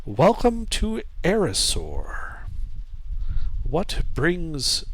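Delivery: slow, eerie voice in the mind; high-pitched alien voice. Acted. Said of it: "somewhat high-pitched voice".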